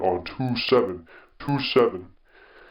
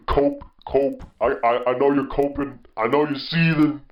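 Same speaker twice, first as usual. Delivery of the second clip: higher-pitched, needling gloat; mocking taunt; 6 semitones higher, 3 dB louder than usual. Real, not acted. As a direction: taunt the rival fan in a raised sing-out. Gloating taunt at rival fan.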